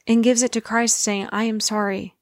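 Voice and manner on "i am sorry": earnest, unforced repentance; simple heartfelt apology, gently voiced; sincere apology. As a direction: say sorry and truly mean it. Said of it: "when you sincerely ask for forgiveness".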